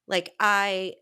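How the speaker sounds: usual speaking voice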